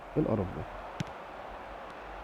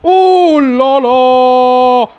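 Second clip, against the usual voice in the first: loud, higher, stretched-out "oh no no"; excited cry; 5 semitones higher, 6 dB louder, much slower than usual. Real, not acted. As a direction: cry it out over the near miss. Reacting to a penalty. (صيحة حماس عالية وممدودة)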